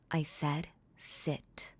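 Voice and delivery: slow, hushed order to sit; slow whispered command. Acted. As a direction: whisper the command slowly, in control. Repeats the line as mistress.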